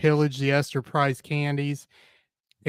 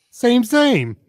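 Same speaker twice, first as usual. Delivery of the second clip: high, laughing agreement; 9 semitones higher, 5 dB louder than usual. Real, not acted. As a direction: laugh out the word same.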